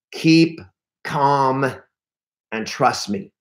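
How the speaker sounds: slow, spaced-out words, stepping down; measured emphasis. Real, not acted. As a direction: land each word separately, with pauses. Slow deliberate advice to coaching audience.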